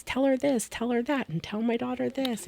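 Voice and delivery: insistent ghost. Retold or imitated. Ghost nagging in the shower.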